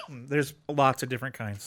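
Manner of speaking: coughing between words; clearing a cough mid-sentence; coughing fit. Real, not acted. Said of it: "Sorry, I'm coughing so much tonight".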